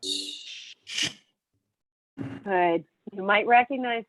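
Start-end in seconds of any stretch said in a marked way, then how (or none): 0.0-1.1 long soft sh hiss, sh said as a shushing hiss; quiet, low sh like a teacher shushing; sh sound. Shown as a demonstration. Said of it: "represents the sound sh".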